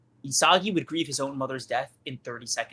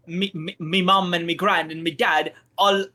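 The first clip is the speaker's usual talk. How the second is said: mock Irish lilt; a hammed-up Irish voice; Irish accent. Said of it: "don't turn Irish".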